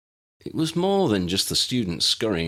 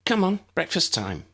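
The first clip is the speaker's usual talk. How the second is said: put-on cheerful girl; 10 semitones higher than usual. Abby urging.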